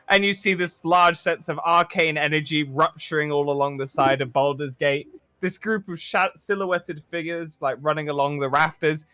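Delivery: measured cinematic narration; game master's scene setting. A narrator's reading. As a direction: paint the scene for the players.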